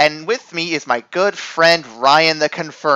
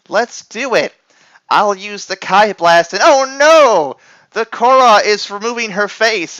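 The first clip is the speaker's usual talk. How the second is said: higher, louder heroic alarm; hammed-up hero; 4 semitones higher, 4 dB louder than usual. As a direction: play the cheesy hero in panic.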